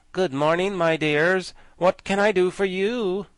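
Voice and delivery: put-on a friendly gatekeeper greeting two girls; pleasant greeting. Gatekeeper greets the girls, lightly pleasant. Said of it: "Speaking pleasantly".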